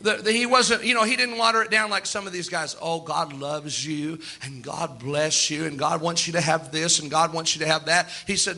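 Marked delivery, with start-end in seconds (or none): 2.8-8.1 mocking sugary preacher. Mocking soft prosperity preachers.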